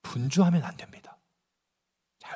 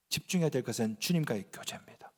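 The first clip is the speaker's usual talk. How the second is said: soft, lower, whispered sermon point; 8 semitones lower, 12 dB quieter than usual. Real, not acted. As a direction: lean in and whisper the key point. (낮게 속삭이는 설교 목소리)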